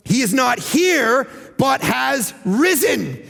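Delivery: proclaimed. Acted. Proclaiming the angels' words.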